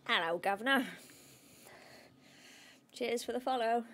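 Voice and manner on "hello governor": hammed-up Cockney, louder; loud mock Cockney hail; put-on Cockney greeting. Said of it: "Sorry, I had to say it like that".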